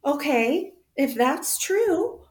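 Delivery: high, loud, laughing exclamation; laughing outburst. Retold or imitated. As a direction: blurt it out in disbelief. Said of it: "I was like".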